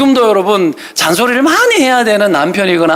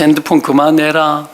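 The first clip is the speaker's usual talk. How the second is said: slow list of mock nags; endless nagging; 3 semitones lower than usual. Nagging family over phone, drink and smoking, slow imitated nagging. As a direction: draw out each weary order. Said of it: "계속 잔소리 하는 거죠".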